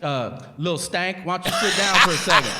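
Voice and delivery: high, stern interrogating cop; stern detective. Retold or imitated. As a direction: press the suspect like a cop. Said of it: "they're literally like".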